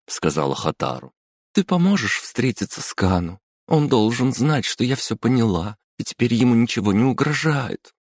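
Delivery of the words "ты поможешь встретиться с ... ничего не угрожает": высокий голос, с просьбой; настойчиво просит помочь; Hataru, earnest. Acted. Hataru voiced high. (Хатару просит подругу о встрече)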